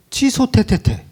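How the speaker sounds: high-pitched cancel with spat syllables; mock spitting retraction. Believer cancelling own words, playful mock spitting. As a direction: take it back and spit it away.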